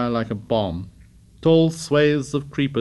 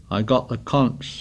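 bleak. Acted. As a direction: say it glumly, already defeated. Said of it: "said Piggy bleakly".

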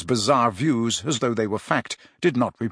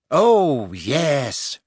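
happy. A narrator's reading. Luna accepting Harry's invitation to get going, happy. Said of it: "she said happily".

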